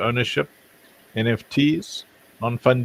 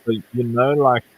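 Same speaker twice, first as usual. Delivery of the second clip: muffled, as if through a covered mic; 2 semitones higher than usual. Real, not acted. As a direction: speak muffled, like a hand over the mouth. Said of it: "is the speaker's voice muffled for anyone else".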